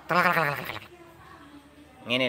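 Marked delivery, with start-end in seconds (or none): 0.1-0.8 imitated clatter. Shown as a demonstration. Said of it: "naik lebih cepat".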